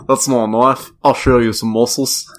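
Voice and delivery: hammed-up Aussie voice; Australian accent. Trading a knife line with a friend, mock Australian accent. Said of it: "I'm Australian".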